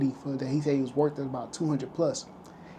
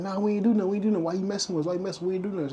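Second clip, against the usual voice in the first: higher-pitched imitated brush-off; mock protest; 5 semitones higher, much faster than usual. Young men refusing the officer who stopped them, mock protest.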